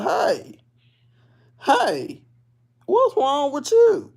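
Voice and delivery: high, loud, slow call. Retold or imitated. Calling to the slumped lady, high and loud. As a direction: call out to wake her. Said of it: "I said".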